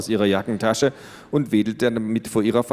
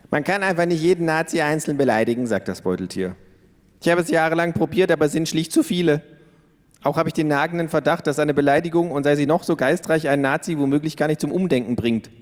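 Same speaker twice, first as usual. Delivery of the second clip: higher, fast, smug kangaroo voice; cocky kangaroo; 6 semitones higher, faster than usual. A narrator's reading. The kangaroo lecturing its flatmate about Nazis, higher and quick. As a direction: rattle it off like a know-it-all kangaroo.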